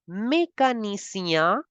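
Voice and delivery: mécanicien with a clear é and nasal end; French mécanicien. Shown as a demonstration. Teacher models French mécanicien. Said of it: "we have to make the sound of A".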